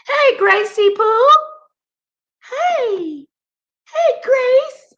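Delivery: high sing-song pet greeting; squeaky pet voice. Real, not acted. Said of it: "Why am I talking like that?".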